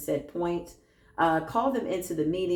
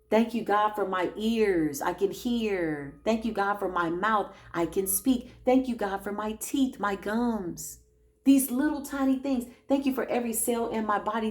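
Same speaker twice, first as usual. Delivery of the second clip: a gentle prayer of thanks; gratitude affirmations; 3 semitones higher than usual. Acted. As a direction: give thanks for each small thing.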